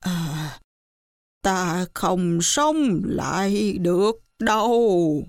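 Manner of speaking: slow ghostly master's voice; monkey faking the master's ghost; imitating the dead master. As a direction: speak as the dead man, slow and hollow. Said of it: "bắt chước tiếng viên ngoại nói".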